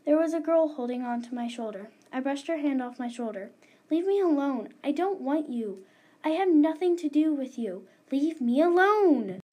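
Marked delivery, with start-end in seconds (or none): 3.9-9.4 angry. Acted. Girl tells ghost to go.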